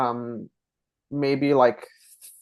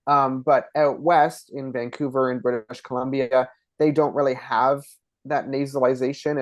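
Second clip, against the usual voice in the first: ordinary talk, nothing marked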